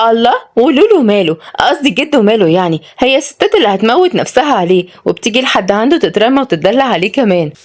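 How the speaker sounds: put-on high-pitched, boastful young woman; cocky, vain retort; haughty. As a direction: brag on his behalf with a conceited lilt. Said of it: "ردت وعد بغرور".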